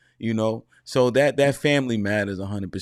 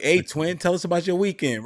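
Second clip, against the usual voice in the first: higher, imitated Southern father asking his boy; a light impression of the Southern coach-dad, upbeat; 8 semitones higher than usual. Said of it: "his dad talked like House".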